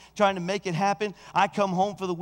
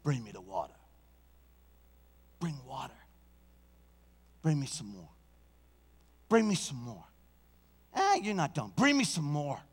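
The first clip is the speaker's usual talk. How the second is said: commanding Elijah; 4 semitones lower, 4 dB quieter than usual. Acted. Elijah commands water, low voice.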